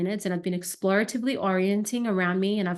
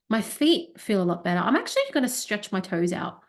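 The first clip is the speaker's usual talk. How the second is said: verbalizing body scan. Shown as a demonstration. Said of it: "obviously I'm gonna verbalize it".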